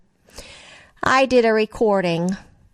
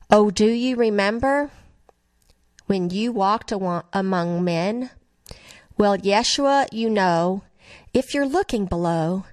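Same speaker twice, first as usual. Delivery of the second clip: prayerful lyric reading. Acted. Reads song lyrics as prayer.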